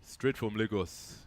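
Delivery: slow, mock Nigerian accent. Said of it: "your best Nigerian accent".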